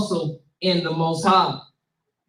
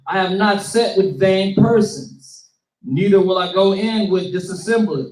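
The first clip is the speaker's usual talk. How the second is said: slower, a bit louder scripture read; deliberate, slightly louder Bible reading. Shown as a demonstration. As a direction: read it out slow and strong for the room. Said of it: "Read that slow one more time and read it loud".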